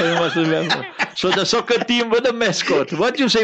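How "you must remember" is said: laughing. Real, not acted. Jokes about the mascot.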